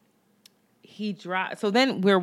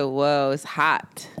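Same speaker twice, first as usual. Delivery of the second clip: slow flat mimicry; 5 semitones lower, much slower than usual. Imitating his flat answer.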